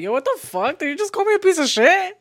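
incredulous question climbing high and loud; retold laughing shock; amused disbelief. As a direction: ask it as if cracking up at the insult. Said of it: "I was dead ass laughing".

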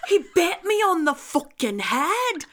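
high, loud mock outrage. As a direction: shriek it in fake indignation. Shrieking mock outrage about Chucky.

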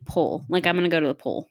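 "pool" with a short vowel, like "pull"; Pittsburgh pronunciation. Retold or imitated. Outsider teasing Pittsburghers about pool, mimicked local pronunciation. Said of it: "like, you guys say pool".

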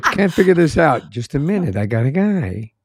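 playful mob-guy voice, starting high and falling; half-there New York gangster patter; Al Pacino. Acted. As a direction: do a mock mobster bragging of a connection. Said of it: "almost my mob guy, Al Pacino".

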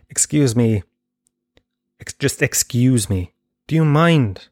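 slow, stern excuse me rising to do you mind; rehearsing a stern rebuke, lightly; mock firm complaint. Practising what he'd say to the waitress, mildly stern. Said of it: "But I won't say that".

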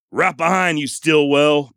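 high, loud movie-line reply; hammed-up confrontation holler; acted showdown shout.

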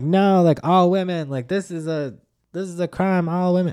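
mock outraged sister. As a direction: protest it like your indignant younger sister. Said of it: "it's like".

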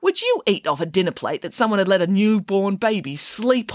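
high-pitched, indignant telling-off; appalled scolding. A narrator's reading. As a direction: scold in disbelief, starting very high. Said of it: "accused Judith Piggins".

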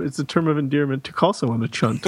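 "chunt" with a clear ch sound, like chunk; pronounce the ch. Shown as a demonstration. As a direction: say "chunt" with a hard ch. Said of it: "You clearly pronounce the ch".

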